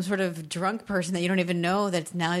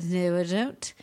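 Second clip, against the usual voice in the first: answering customs in a put-on Irish accent; lightly affected Irish-tinged reply; 3 semitones lower, slower than usual. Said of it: "Did you have the accent".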